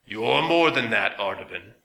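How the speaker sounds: slow metallic machine voice; strange metallic voice. A narrator's reading. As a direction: speak like a grinding machine. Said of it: "in the same strange metallic voice".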